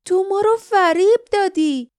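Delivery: high, loud accusation in fury; angry cry. A narrator's reading. Lif accusing the guardian of trickery, furious shout.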